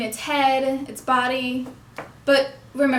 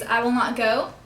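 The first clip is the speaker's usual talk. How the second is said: "I" and "go" stressed, "will not" swallowed. Shown as a demonstration. Teacher gives a practice phrase, stressing I and go. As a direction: lean on "I" and "go" only. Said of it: "emphasizing the syllables "I" and "go".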